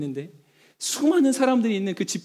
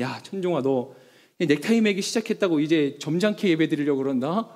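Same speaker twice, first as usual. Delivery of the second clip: mock self-rebuke; 4 semitones lower than usual. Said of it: "제 스스로가 저한테 그런 생각이 드는 거예요".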